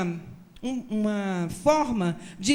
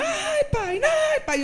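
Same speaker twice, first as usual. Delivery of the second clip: very high, loud mock wailing; fake crying boy; 3 dB louder, much slower than usual. Boy faking screams for his mother while father pretends to punish him, high loud mock wail. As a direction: ham up a staged beating cry. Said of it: "Grita aí".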